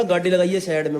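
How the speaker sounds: lightly imitated Haryanvi accent; खड़ी Haryanvi. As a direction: quote it in blunt Haryanvi. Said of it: "एकदम खड़ी हरियाणवी में बोला". (हरियाणवी लहजे की नकल)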